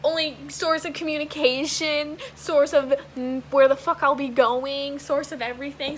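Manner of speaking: words pushed out through real anxiety; retelling the crying spell, still upset; upset, near tears. Real, not acted. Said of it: "I'm, like, crying".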